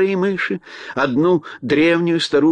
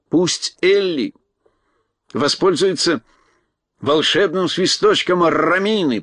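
crow voice; 3 semitones higher, slower than usual. Acted. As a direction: speak as a wise old crow. Crow character voice.

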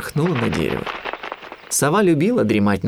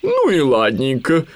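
slower, higher, suddenly agreeable owl; owl changing mood; 5 semitones higher, 4 dB louder, slower than usual. A narrator's reading. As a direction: let it go, drawing it out. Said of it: "внезапно сменила настроение сова". (сова вдруг смягчилась)

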